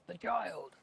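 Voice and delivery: half-hearted yell of alarm; mock yell. Player voices Karu yelling out about the child, mock yell. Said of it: "will, uh, yell out".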